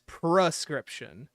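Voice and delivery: "prescription" slowly sounded out; "prescription" said slow and deliberate; sounded-out word. Shown as a demonstration. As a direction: stretch "prescription" to show its first syllable. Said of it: "it sounds like per, but it's".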